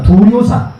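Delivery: 두류산 said again, each syllable 두-류-산 spelled out clearly; repeat model word. Shown as a demonstration. Teacher repeats the name with the class, clear and careful. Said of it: "한번 해봅시다".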